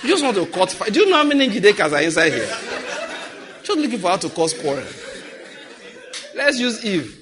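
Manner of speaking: loud laughing protest; teasing the congregation while laughing; laughing banter. Real, not acted. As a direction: laugh through the mock complaint. Laughing argument over names.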